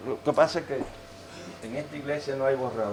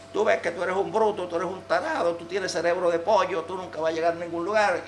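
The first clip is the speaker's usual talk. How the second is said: scolding parent; 4 semitones higher than usual. Retold or imitated. Parent scolding child over bad grades.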